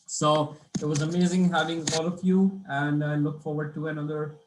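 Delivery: hoarse, dry-throated voice; talking through a dry throat. Real, not acted. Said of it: "Throat is drying up".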